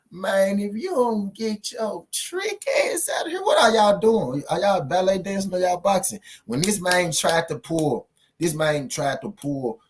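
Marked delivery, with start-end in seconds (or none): 0.1-6.2 yelling it out at a fight he can't believe; mock outraged yell. Commentator yelling at the boxers in disbelief. Mocking Teofimo's complaint, yelling.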